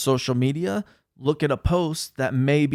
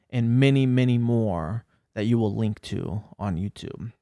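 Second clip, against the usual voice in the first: serious voice. Shown as a demonstration. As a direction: read it like a grave warning to everyone. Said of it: "in my serious voice".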